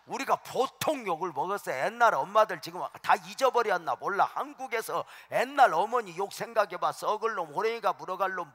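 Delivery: loud, high, full-force preaching; preacher shouting the old mothers' curses at the congregation; fiery preaching. Acted. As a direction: hammer the old insults out to the crowd. Builds to a preaching climax.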